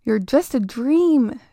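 slow, frightened stammer. Acted. Terrified girl telling the creature it isn't real, stammering. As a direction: force the words out through fear. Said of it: "Jamie stammered".

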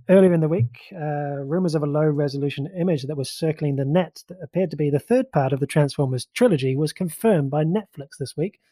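lightly put-on newsreader delivery; a hint of mock news-desk announcer. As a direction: read it out like a news anchor, slightly lifted. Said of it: "That's my news voice".

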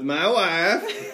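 drawn-out Borat-style catchphrase; Borat accent. Acted. Host introducing his wife, drawn-out Borat accent. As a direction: stretch it slowly in a mock Borat accent.

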